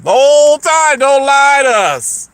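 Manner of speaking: retold exasperated callout; accusing outburst. Escalating repeat of the accusation.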